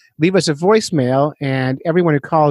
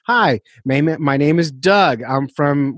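slow and clear; slower than usual. Shown as a demonstration. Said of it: "you talk slowly and clearly".

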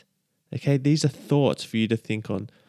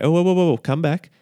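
mock God calling back; 3 semitones higher, 3 dB louder than usual. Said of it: "imagine God saying that to the angels".

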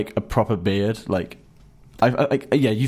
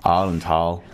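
Northern Irish accent attempt; 7 semitones lower than usual. Shown as a demonstration. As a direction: play at a Northern Irish accent, pitched low. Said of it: "Go on, give us an impression".

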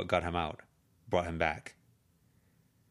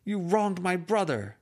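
high, loud, slow accusation; calling out after him; 12 semitones higher, 6 dB louder, slower than usual. Acted. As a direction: yell it slowly, every word an accusation. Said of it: "she called out after him".

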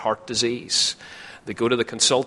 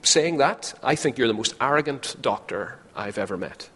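indignant patient; 6 semitones higher, faster than usual. Retold or imitated. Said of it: "you think".

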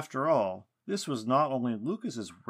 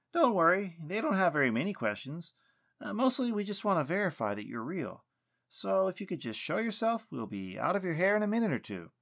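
higher, reassuring character voice; lightly acted coaxing of someone in hiding, pitched up; lightly voiced Weston; 8 semitones higher than usual. A narrator's reading. Weston asking the silent knot to show itself, lightly coaxing.

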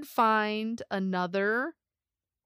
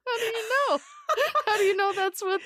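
incredulous; 12 semitones higher, much faster than usual. Acted. Incredulous question to Sasquatch claim.

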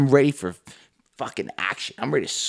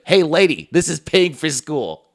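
mock retort; 5 semitones higher than usual. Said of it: "It's like".

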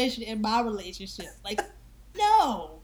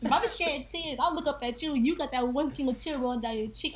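incredulous double take; 4 semitones higher than usual. Retold or imitated. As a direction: catch yourself mid-cry and stare at him. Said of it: "gonna be the person like".

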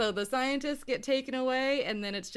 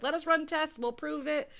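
mock insistent pleading; 7 semitones higher than usual. Scientists pleading their case, acted.

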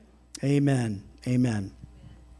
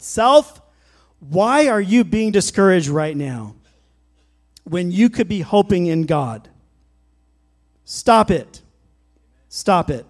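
louder, firm command to yourself; stern self-talk; 4 dB louder than usual. Shown as a demonstration. Pastor demonstrating talking sternly to himself, louder command. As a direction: take yourself in hand. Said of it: "We've gotta talk to ourselves".

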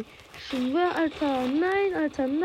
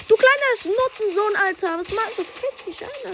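angry shout; 10 semitones higher, 5 dB louder than usual. Real, not acted. Raging at enemy in game.

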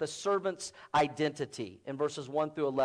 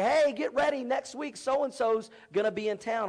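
lightly voiced, higher-pitched news heads-up; TV news announcer; 4 semitones higher than usual. TV news telling town about a visitor, lightly acted announcement. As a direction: pitch it up like a local news alert. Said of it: "it's Nine News".

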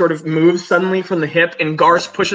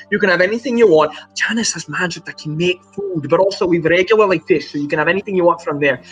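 hearty, chatty crewmate. Acted.

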